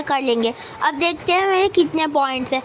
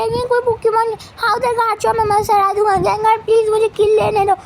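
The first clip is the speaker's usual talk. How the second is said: 1 excited plea; 6 semitones higher than usual. Pretend. Begging teammate Gengar for kill.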